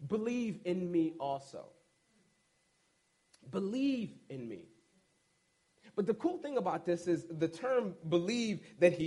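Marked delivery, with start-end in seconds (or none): 0.1-1.7 lower, softer earnest invitation; quiet plea. Acted. Jesus inviting his friends to trust him, low and soft. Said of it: "he turns around and says". 3.5-4.7 low, soft repeated line; soft echo. Real, not acted. Preacher echoing Jesus' words to the church, low and soft. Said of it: "preacher echoes Jesus softly".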